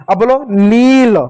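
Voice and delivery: "नील" said slowly with a long ee; long vowel. Shown as a demonstration. Teacher showing children the long vowel sound. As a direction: stretch the ee in "नील". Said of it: "तो लंबा उच्चारण हो रहा है".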